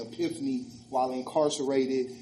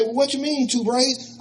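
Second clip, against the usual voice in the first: Rick puzzled; 10 semitones higher, 4 dB louder than usual. Retold or imitated.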